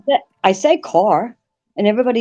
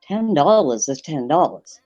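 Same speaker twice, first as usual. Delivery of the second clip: put-on Maine accent joke telling. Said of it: "So I gotta get my best accent".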